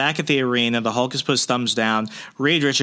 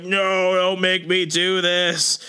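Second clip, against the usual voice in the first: strained, higher, drawn-out mock protest; pained plea; 5 semitones higher, slower than usual. Retelling Reed resisting the disc, pained mock plea. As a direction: act out a reluctant, pleading hero. Acting Reed's anguished plea in recap.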